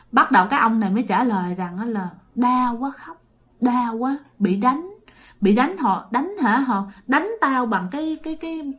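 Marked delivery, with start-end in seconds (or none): 2.4-8.7 soft, halting voice of a hurting spirit; pained lament. Acted. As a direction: complain weakly of pain, haltingly. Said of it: "khi mà nhập vô khóc".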